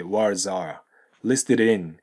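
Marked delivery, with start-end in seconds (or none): 0.0-0.8 "words are" as wordzar; linked S. Shown as a demonstration. Teacher shows liaison, "words are" as one word. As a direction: glue the final S onto are in "words are". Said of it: "これがくっついて".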